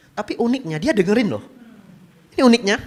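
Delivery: normal talking voice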